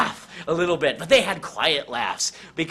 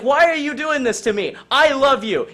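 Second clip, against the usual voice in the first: wounded plea; 9 semitones higher, 6 dB louder than usual. Acted. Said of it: "he's like".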